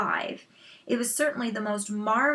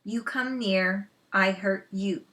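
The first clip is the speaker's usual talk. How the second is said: swift threat. Acted. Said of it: "the Indian said swiftly".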